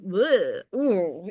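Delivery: queasy groan. Retold or imitated. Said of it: "I felt like throwing up".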